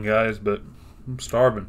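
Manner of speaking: chewing while talking; wolfing down food. Real, not acted. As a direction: mouth full of food. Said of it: "I'm sorry I'm eating".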